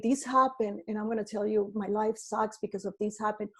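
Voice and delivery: whining about what went wrong, a touch put-upon; complaining. Retold or imitated. To party guests, explaining why life sucks, mild complaining. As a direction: grumble it as an excuse. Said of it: "telling them why your life sucks".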